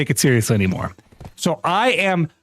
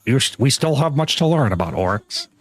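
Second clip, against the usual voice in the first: NPC voice line; 3 semitones lower than usual. Retold or imitated. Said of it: "he always says".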